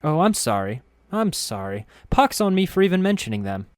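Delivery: put-on high, eager apologetic girl voice; flustered perky girl. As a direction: gush an apology brightly.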